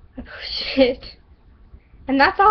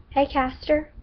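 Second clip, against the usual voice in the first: put-on stereotypical American Southern accent; 3 semitones higher, slower than usual. Shelby greets Caster in the kitchen, Southern accent. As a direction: put on a stock Southern drawl. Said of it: "stereotypical Southern accent".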